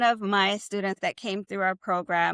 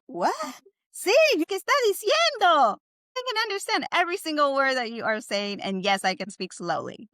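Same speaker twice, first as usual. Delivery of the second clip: delighted native listener; 4 semitones higher than usual. Pretend.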